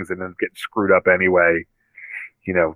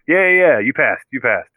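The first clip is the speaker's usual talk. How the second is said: yeah yeah yeah, quick and higher, brushing it off; dismissive Tony; 4 semitones higher, 3 dB louder than usual. Retold or imitated. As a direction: hurry the kid along with a hammed-up wave-off.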